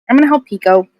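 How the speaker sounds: reluctant, grudging tone; begrudging. Real, not acted. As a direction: say it like you'd rather not. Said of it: "I don't know why I sounded so begrudging there".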